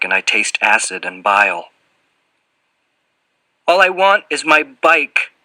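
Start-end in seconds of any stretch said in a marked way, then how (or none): 3.7-5.3 higher, mildly whimpering plea. A narrator's reading. Boy pleading with the fat man for his bike, whimpering. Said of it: "There's a whimper in my voice".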